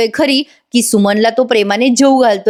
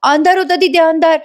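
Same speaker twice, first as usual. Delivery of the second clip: high, stuttering mock cry; imitated agitation, words repeating and stumbling; acted outcry; 5 semitones higher than usual. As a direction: blurt broken memories in a raised pitch. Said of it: "मोठ्याने सुमन ओरडते".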